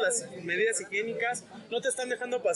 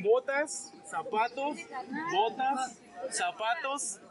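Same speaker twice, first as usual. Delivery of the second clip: vendor calling; much slower than usual. Pretend. Mimics a vendor hawking goods.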